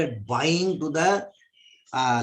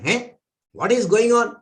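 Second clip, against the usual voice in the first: higher and louder flustered outburst; retold exasperated cry; 7 semitones higher, 6 dB louder than usual. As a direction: throw up your hands at the nonsense. Brahmana exasperated by second thief.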